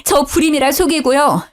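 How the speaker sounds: mock angry wail. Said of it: "화가 나서 울부짖었죠".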